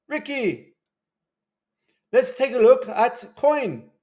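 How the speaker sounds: high, drawn-out mock British; put-on British accent. Streamer turning to a viewer's coin in a mock British accent. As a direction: stretch it out in a hammed-up British accent. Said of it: "My British accent".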